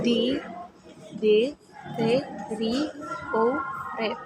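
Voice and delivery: deteriorate broken as D, D, T, R, O, rate with pauses; syllable by syllable. Shown as a demonstration. Student dividing deteriorate into syllables for class, broken apart. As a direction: tap out D, D, T, R, O, rate one beat at a time. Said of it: "divide deteriorate in syllable".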